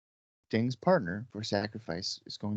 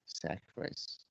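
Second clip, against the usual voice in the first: very soft, breathy yawned words; yawning; 4 semitones lower, 15 dB quieter than usual. Real, not acted. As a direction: say it mid-yawn. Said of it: "as you were doing that yawn".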